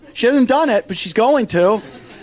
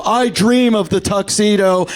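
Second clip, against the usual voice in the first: dreamy man. Retold or imitated. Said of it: "have you ever heard a man".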